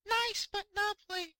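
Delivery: very high, small squeaky fish voice; tiny fish voice. Acted. Fish voice continues.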